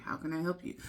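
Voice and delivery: lightly voiced courteous gentleman; distinguished gentleman. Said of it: "deeper extinguished gentleman voice".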